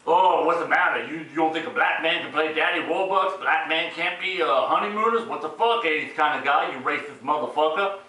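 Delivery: lightly put-on confrontational voice; imagined offended objector. Imagined objector calling the reviewer racist, mock-indignant voice. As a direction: challenge him as a mock accuser.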